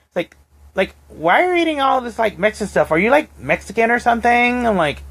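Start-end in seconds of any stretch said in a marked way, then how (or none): 1.1-4.7 mocking racist coworker.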